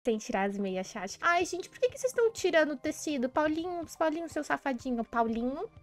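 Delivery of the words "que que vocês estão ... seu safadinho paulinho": mother scolding. Acted.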